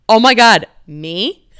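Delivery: giggling "me?" in mock shock; flustered laugh at being called on; laughing disbelief. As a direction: laugh through it like you've just been picked out. Singled out by comedian on stage.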